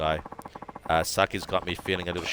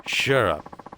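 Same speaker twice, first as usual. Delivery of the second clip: put-on angry drunken snap. Drunk rival snaps back angrily.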